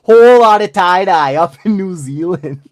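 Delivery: lightly hammed-up Canadian accent; a touch of stereotypical Canadian accent. Shown as a demonstration. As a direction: imitate a Canadian, a bit playfully. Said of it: "That's Canadian".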